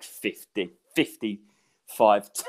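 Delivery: real breathless, halting delivery with a wheezy laugh; short of breath. Real, not acted. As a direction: struggle to catch your breath mid-sentence. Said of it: "difficult to catch my breath".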